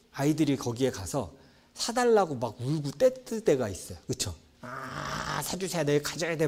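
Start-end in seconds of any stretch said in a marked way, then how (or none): 4.6-6.5 put-on whining child. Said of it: "막 할 때가 있어요".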